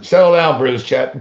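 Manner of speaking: loud sharp call to settle down; telling chat off. Real, not acted. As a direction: shout the chat down, half amused. Streamer scolding the live chat.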